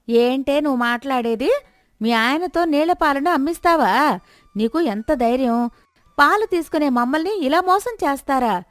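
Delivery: cheated customers berate the milkman's wife indignantly; outraged scolding. Acted. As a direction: tear into her for cheating you. Neighbours outraged at the trick.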